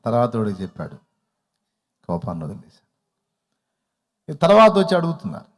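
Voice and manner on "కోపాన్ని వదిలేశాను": low, gentle and over-serene; hammed-up calm of a reformed man; lightly put-on serenity; mock saintly patience. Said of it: "బాగా దీర్ఘశాంతంతో".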